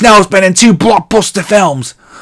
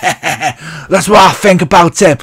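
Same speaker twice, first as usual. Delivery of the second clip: laughing through it; 2 semitones lower than usual. Real, not acted. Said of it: "I'm not laughing".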